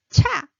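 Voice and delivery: 차 aspirated, high and loud; 차 with a strong puff of air. Shown as a demonstration. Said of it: "stronger one, rising".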